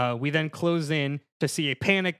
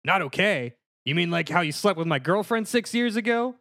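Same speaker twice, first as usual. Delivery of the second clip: slightly raised, indignant actor impression; lightly voiced aggrieved brother, rising at the end; Luke Wilson; 4 semitones higher than usual. Luigi confronting Mario about his girlfriend, Luke Wilson impression. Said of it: "Luke Wilson".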